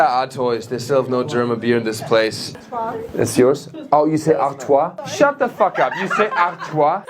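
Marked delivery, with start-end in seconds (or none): 5.1-7.0 loud, high comic disbelief; indignant stage yell; mock outrage. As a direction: explode in mock outrage at the crowd. Mock outrage at beer pronunciation.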